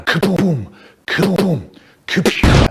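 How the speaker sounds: mock explosion noises; imitated explosions. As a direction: voice a row of cartoon booms. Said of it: "we're all going".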